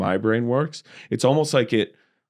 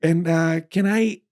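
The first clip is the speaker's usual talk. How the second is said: hammed-up overly courteous voice, much higher; higher mock-polite formal voice; 8 semitones higher than usual. Comedian retelling his Uber ride, mock-formal higher voice. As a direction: play it stiffly polite and grand. Retold self, put-on formal voice.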